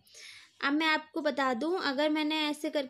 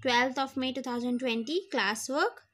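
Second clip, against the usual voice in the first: slow dictation; 2 semitones lower, much slower than usual. Shown as a demonstration. Teacher dictating date to class.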